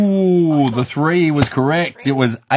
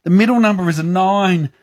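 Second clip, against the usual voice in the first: excited build-up; 7 semitones higher, slower than usual. Real, not acted. Building up to the result.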